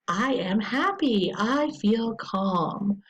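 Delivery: very slow, word by word on the device; slow, deliberate device modeling. Shown as a demonstration. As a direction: spell out each word slowly for the child. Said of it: "show them on the device".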